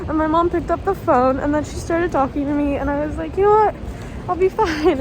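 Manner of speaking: tearful voice breaking into laughs; crying while talking. Real, not acted. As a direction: talk through real tears, half laughing. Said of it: "I don't know why the fuck I'm crying".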